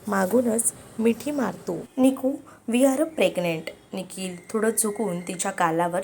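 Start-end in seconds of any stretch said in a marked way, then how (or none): 2.0-3.7 higher, louder and drawn-out happy news; excited announcement. A narrator's reading. Husband telling his wife they are expecting, excited. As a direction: break the big news slowly, with a lifted voice.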